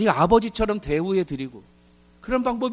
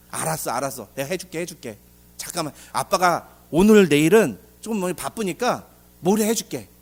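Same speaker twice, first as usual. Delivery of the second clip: placating father; 3 semitones lower than usual. Acted.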